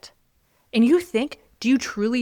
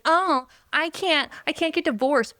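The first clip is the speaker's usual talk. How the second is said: mock helplessness; 6 semitones higher than usual. Woman mocking grown men who won't divorce, mock helplessness. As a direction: imitate a helpless complainer, dragging out the start.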